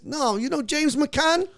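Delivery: very high, loud, drawn-out London disbelief; astonished London lad, hammed up; London accent. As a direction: mimic an amazed London fan. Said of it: "these London dudes".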